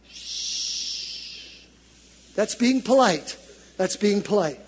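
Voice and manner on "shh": soft hushing shh; shushing someone. Real, not acted. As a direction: hush your neighbor. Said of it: "look at somebody and just".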